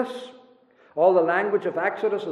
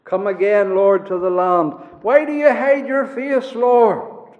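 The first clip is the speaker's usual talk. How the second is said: imploring prayer; 2 semitones higher, 6 dB louder than usual. Retold or imitated. Waiting believers pray for the Lord's return, building to loud pleading. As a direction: beg the Lord to come back, building in force. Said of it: "they've been praying and saying".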